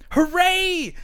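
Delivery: high, loud squeal of joy; a crowd of small animals cheering; cheering hooray. A narrator's reading.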